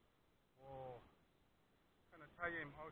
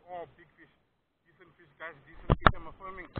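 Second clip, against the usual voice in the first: excited; 3 semitones higher, 23 dB louder than usual. Real, not acted. Hooking a big fish.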